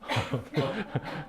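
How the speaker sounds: soft real chuckle. Real, not acted. Pastor amused by a parent's threat, soft chuckling. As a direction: chuckle quietly at your own story.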